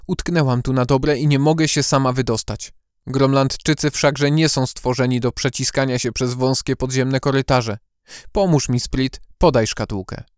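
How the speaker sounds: friendly, pleading owl voice; coaxing. Acted. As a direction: sweetly ask for help. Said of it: "przyjazny, nawet przymilny".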